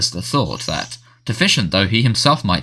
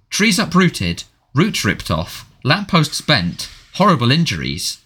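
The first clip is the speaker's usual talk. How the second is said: indignant list, mostly pitched up; indignant bark; 6 semitones higher, slower than usual. A narrator's reading. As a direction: reel off each item in disbelief. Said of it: "barked the Prime Minister".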